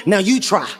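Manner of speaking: understated imitation of a solemn guide; Antoine the tour guide. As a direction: hand over the task in a low, measured tone. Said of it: "He looks at my son".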